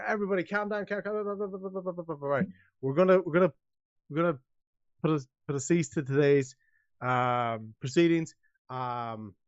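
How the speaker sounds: a hint of a fussy official calming people down; nervous mayor. Mayor hushing the town crowd, lightly flustered.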